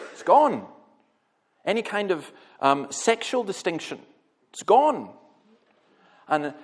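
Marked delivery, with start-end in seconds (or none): 0.1-0.7 emphatic declaration. Acted. 4.5-5.1 emphatic declaration. Acted. Preacher repeats the declaration.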